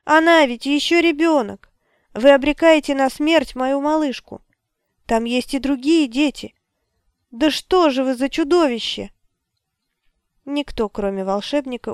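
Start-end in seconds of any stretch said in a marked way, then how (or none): 0.1-9.1 desperate accusation. A narrator's reading. Mother accusing the wizard.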